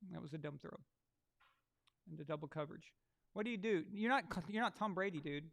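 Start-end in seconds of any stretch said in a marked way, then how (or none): 3.3-5.5 scolding. Real, not acted. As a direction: snap at the quarterback.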